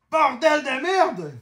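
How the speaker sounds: high, slow, drawn-out curse; high, slow oath at a big hit; amazed swearing. Real, not acted. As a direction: swear slowly in sheer amazement. Thrilled by card pull.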